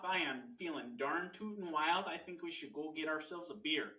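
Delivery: earnest Midwestern husband act; lightly hammed Midwest folksiness; Midwest accent. Husband tells Mary he wants beer, Midwest accent. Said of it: "It's the best accent".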